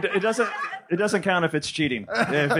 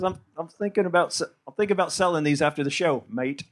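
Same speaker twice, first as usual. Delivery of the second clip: attempted Australian accent. Comic quoting his friend's merch plan, badly faked Aussie accent. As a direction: fake an Australian accent, tacking on "mate". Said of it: "That sold the accent".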